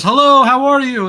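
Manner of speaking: high, loud welcoming hello; effusive greeting. Retold or imitated. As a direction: greet them like a charismatic host. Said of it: "He was a ball of charisma".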